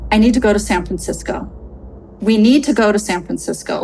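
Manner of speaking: urgent, insistent demand; retold panic, mildly pressing; panicked blurt. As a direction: blurt it out to a husband. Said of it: "Like, I'm panicked".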